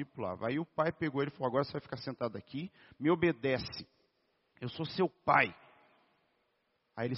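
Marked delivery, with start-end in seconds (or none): 1.5-5.5 lightly acted stern father, quick at first, then firmer; nervous father. Father ordering his restless boy to sit in church, mildly nervous and stern. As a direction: mildly imitate a father laying down the law. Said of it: "O pai já ali nervoso falou assim".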